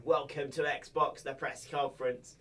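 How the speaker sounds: slow, measured presenter voice, lightly done; press conference host. Retold or imitated. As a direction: announce it like a press host, slowly. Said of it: "kind of talking like this to everybody".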